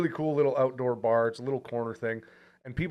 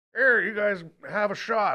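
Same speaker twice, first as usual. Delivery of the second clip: put-on high old prospector voice; 8 semitones higher than usual. Quoting a former zz top bus driver who visits and offers shots: old prospector voice. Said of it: "Why does he sound like an old prospector?".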